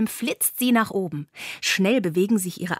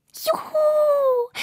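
tiny spider's much higher cheering voice; joyful cheer. A narrator's reading. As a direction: squeal it like a thrilled little spider. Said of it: "ruft Fiona". (hohes, jubelndes Spinnchen)

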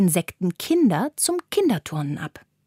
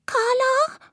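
much higher, timid rising call; anxious call. A narrator's reading. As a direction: call out lost in the dark grass. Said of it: "ruft sie ängstlich". (ängstlich, hoch fragend)

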